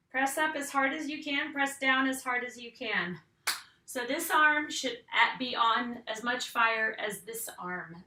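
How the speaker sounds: loud coaching. Real, not acted. Coach pushing effort.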